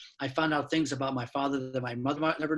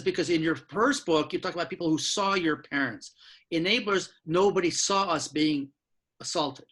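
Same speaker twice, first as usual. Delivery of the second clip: retold scream; 3 semitones higher, 3 dB louder than usual. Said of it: "She was screaming at me".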